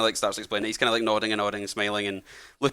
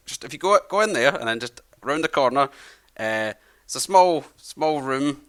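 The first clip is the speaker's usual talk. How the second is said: put-on friendly old man; 3 semitones higher, 3 dB louder than usual. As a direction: play a chatty old host welcoming travellers. Old man gives directions.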